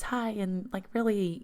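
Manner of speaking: put-on high stereotypical pageant girl voice; pageant contestant. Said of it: "stereotypical kind of pageant girl voice".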